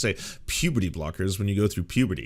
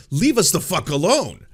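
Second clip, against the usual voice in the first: exasperated plea; 5 semitones higher, 4 dB louder than usual. Retold or imitated. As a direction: plead loudly to be left alone. Voices everyone else, exasperated.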